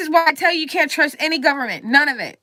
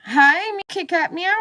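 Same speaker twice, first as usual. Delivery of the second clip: higher, cutesy kitty voice as Kit Kat; cute cat voice; 7 semitones higher than usual. Pretend. Ranting man suddenly voices a cat, high and cutesy. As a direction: play a little cat saying hi.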